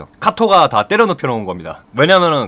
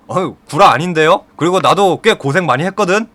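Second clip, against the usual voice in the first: mildly indignant comeback, pitch lifting; lightly acted protest; protesting retort; 5 semitones higher than usual. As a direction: push back, a touch defensive. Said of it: "이런 식으로 반박을 합니다".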